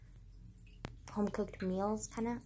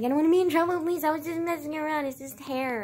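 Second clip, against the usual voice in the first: retold crying plea; 6 semitones higher, 3 dB louder than usual. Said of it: "And I started crying".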